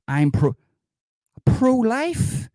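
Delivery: shrieking high incredulous question; mock outrage. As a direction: squeal it in disbelief. Outraged at a pro-life commenter.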